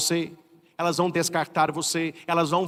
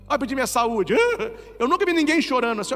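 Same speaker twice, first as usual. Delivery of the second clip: mock wailing parishioner, laughing; 6 semitones higher, faster than usual. Priest mimics crying parishioner.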